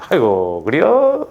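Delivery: smiling, mock-gentle reply with a swooping rise; good-humored soothing. Answering someone who throws a temper, good-humored and soothing. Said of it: "웃으면서".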